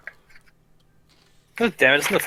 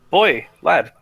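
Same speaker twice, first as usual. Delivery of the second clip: louder, summoning an apprentice; calling out; 3 semitones higher, 7 dB louder than usual. Acted. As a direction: call the boy over firmly. Dwarf summons his apprentice.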